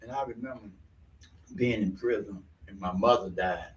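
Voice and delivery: low, soft and heavy; sad, subdued. Real, not acted. Sharing his mother's death, low and subdued. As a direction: drop low and quiet with grief.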